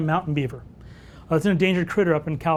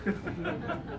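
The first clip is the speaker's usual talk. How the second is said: imitated wildlife bolting; 14 dB quieter than usual. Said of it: "you go, wildlife go".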